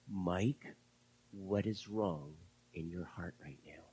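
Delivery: soft, unvoiced whisper of a question; hushed voice of God. God quietly asking Mike, in a whisper. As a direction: whisper it gently, like God searching his heart. God speaking softly to him.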